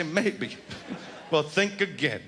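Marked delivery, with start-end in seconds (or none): 0.0-0.6 mocking his maybe. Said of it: "people are hearing you say".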